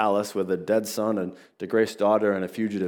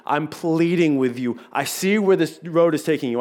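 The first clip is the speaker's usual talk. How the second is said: earnest plea; 3 semitones higher than usual. Retold or imitated. Pastor voicing a friend who begs someone to turn back, urgent and pleading. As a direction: plead with them, voice climbing.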